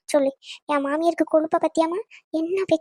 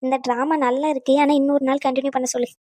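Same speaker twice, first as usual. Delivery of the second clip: dry, lower-pitched scepticism; dismissive sarcasm; 3 semitones lower than usual. Acted. Relative calls the tears a drama to continue later, dry and dismissive. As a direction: brush off the act in a low voice.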